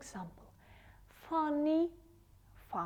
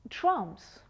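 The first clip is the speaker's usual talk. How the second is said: Drums called out loudly; teacher's loud model Drums; loud model word; 8 dB louder than usual. Shown as a demonstration. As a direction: announce Drums clearly and loud for the class. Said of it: "Look at the pictures".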